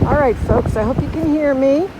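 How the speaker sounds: loud, projecting outdoors; outside voice. Real, not acted. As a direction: project so they can hear. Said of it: "I'm gonna use my outside voice so that you can".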